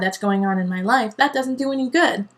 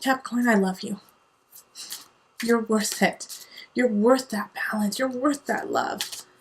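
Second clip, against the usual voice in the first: tender. Real, not acted. Tender encouragement.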